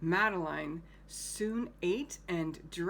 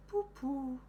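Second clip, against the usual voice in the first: higher, scoffing pooh-pooh; dismissive Madeline; 6 semitones higher than usual. Acted. Teacher voices Madeline scoffing at the tiger, higher. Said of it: "Madeline just said".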